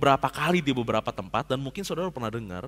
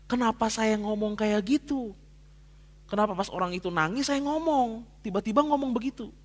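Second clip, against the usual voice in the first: a mild pleading prayer, pitched higher and slowing on the second question; retold prayer; 5 semitones higher than usual. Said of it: "saya doa loh sama Tuhan". (doa memohon yang diceritakan ulang)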